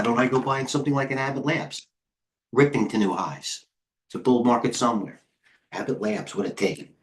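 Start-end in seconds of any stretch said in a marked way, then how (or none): 2.5-6.9 breathless, winded talk; out of breath. Real, not acted. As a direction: speak short of breath. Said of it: "I'm out of breath".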